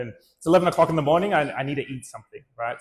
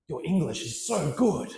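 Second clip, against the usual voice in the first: a hint of an overeager Australian lady; waitress gushing at a Taiwanese guy; imagined gushing praise; 3 semitones higher, 4 dB quieter than usual.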